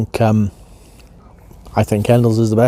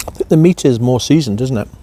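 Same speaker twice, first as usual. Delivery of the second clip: talking through a mouthful of pie; words round a bite of food; chewing while talking. Real, not acted. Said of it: "apologies for the eating sound".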